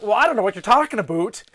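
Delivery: put-on slipping Canadian accent. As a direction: let the Canadian accent leak out. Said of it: "you just gotta really lean into it".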